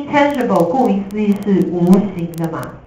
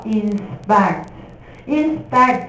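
把inspect慢慢念两遍; 一拍一拍放慢示范inspect; slow model reading; much slower than usual. Shown as a demonstration. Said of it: "老师示范念单词". (老师放慢重复示范单词)

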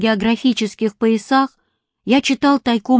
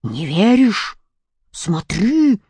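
bark; slower than usual. A narrator's reading. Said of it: "рявкнул медведь".

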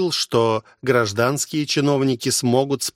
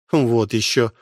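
фыркнув. Acted. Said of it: "фыркнула госпожа Тень".

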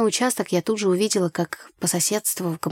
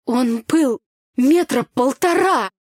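high, loud, drawn-out exaggeration; indignant self-defence; 6 semitones higher, 6 dB louder, slower than usual. A narrator's reading. Girl defending her fright to brother, indignant. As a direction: stretch it out to justify yourself. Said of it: "В своё оправдание начала я".

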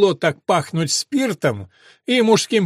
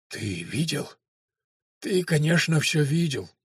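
sepulchral voice; 3 dB quieter than usual. Acted. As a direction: speak like from beyond the grave. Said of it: "загробным голосом произнёс сумасшедший".

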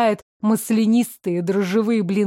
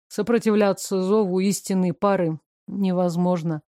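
calm man; 2 semitones lower than usual. Acted. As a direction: play him calm and reserved. Male character voice, lower.

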